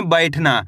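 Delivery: 'बैठना' को अक्षर जोड़कर एक शब्द में बोलें; 'बैठना' में खुला 'ऐ', अंत में सुर गिराएँ; मिलाकर पढ़ना. Shown as a demonstration. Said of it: "कैसे पढ़ेंगे?". ('बैठना' साफ़, जुड़ा हुआ उच्चारण)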